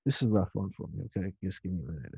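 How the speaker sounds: real emotion catching in the throat; choked up. Real, not acted. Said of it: "if I sound a little upset and choked up".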